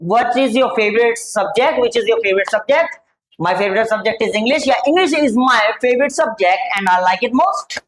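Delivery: slow, deliberate English question and answer; slow model answer. Shown as a demonstration. Teacher slowly modelling the question and answer. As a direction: read it slowly for the class. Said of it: "ये हो सकता है".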